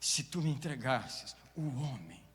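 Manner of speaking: Holy Spirit pleading with the believer; voicing the Holy Spirit. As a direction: start gently, then build into a loud plea. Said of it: "o Espírito Santo".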